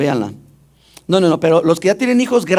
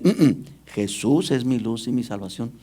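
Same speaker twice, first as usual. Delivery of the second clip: mock misreading; 6 semitones lower, 5 dB quieter than usual. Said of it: "ellos dicen".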